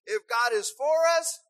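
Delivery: loud, ringing proclamation; preacher's shout. Acted. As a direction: shout it out to the church. Proclaiming scripture to congregation.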